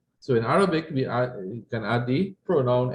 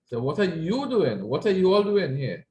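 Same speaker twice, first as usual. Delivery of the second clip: mild rebuke; 4 semitones higher than usual. Shown as a demonstration. Teacher catching children playing, mock scolding. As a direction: catch the kids playing and tell them off lightly. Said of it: "this is a form of rebuke".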